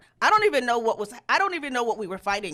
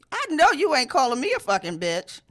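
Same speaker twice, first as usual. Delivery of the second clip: rising angry outburst, louder; indignant; 6 semitones higher, 8 dB louder than usual. Retold or imitated. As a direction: get heated and indignant. Her own angry reaction retold.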